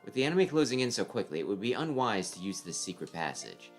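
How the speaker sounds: cool, measured voice of a strategist; calm tactician voice. Acted. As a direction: lay out the plan coolly.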